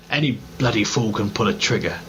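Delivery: a hint of a plummy English officer, laughing through it; lightly mock the posh Englishman's bloody; English accent, lightly hammed, half-laughing; posh English gentleman. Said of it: "ludicrously posh English gentleman who says "bloody".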